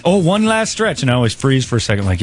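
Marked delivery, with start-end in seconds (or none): 0.1-1.0 put-on Canadian accent. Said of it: "Canadian kettlebell workouts".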